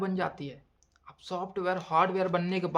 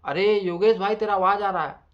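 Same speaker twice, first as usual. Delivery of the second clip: louder call of a friend across the room; friend shouting; 2 semitones higher, 8 dB louder than usual. Retold or imitated. Friend yells at Yogesh that his voice carries. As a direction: call out to Yogesh to stop the noise. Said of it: "मेरे को चिल्ला रहा".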